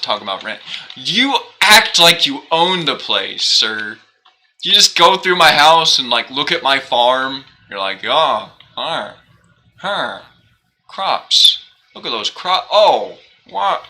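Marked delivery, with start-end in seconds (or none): 1.0-7.4 high loud teasing scold; mock scolding. Real, not acted. Scolding a game villager. 8.0-13.8 high, curious, hammed-up gawking; villager voice. Voicing villager's thoughts.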